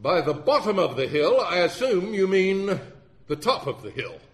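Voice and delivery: mock courtroom insistence; insistent lawyer. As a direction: press the witness loudly, then land the correction. Stubborn lawyer correcting the witness.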